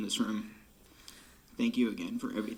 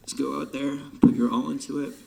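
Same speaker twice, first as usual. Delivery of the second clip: louder and higher, a pep shout; rallying call; 4 semitones higher, 7 dB louder than usual. Real, not acted. Drum major rallies the band before the field, loud and high. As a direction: fire the band up before they march.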